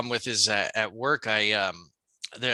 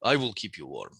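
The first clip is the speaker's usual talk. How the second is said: put-on Russian accent. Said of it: "hairy Russians".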